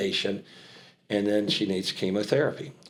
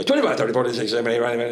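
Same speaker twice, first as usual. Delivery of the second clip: auctioneer call; much faster than usual. Retold or imitated. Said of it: "I got that microphone, and I go".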